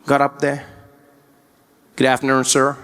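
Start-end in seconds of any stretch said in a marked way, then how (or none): 2.0-2.8 lightly voiced American cop, lower; American policeman. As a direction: greet a driver as an American officer. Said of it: "Policeman walked up to my window".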